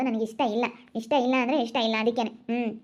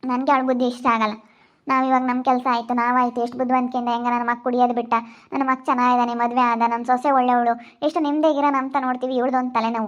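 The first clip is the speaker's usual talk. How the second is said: louder, disgusted condemnation; 4 dB louder than usual. Acted. Mother to bride about her daughter, loud disgust. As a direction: spit out your scorn, louder.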